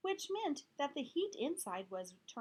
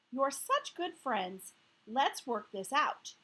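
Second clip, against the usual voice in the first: soothing; 6 dB louder, slower than usual. Acted. Teacher soothing girls.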